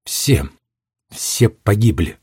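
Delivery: slow, tearful quiet lament; crying softly. Acted. Girl alone in her cell weeping, quietly tearful. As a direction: grieve it through quiet tears. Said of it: "заплакала".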